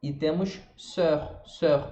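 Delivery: slow sœur with rounded lips; sœur drawn out, the R in the throat; French sœur. Shown as a demonstration. Teacher slowly introducing sœur, meaning sister. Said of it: "demonstrating sœur".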